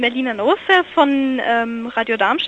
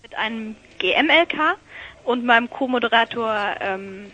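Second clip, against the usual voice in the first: faint caller on a weak line; thin, fading phone audio; bad connection; 4 dB quieter than usual. Real, not acted. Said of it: "Ich höre euch schlecht".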